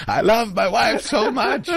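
very high, hammed-up declaration; exaggerated, high-pitched public announcement; said out loud. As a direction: advertise your devotion to everyone nearby. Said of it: "say out loud".

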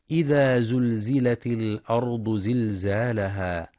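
slow, drawn-out tajweed chant; Quran recitation. Shown as a demonstration. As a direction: recite the verse slowly, stretching the vowels. (تلاوة مجودة بطيئة)

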